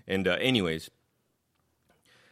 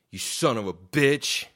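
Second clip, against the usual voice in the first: louder, drawn-out mock yell; retold angry insult; 2 semitones higher, 5 dB louder than usual. Angry driver calls after man walking off, mock yell. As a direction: act out an insult called across a lot.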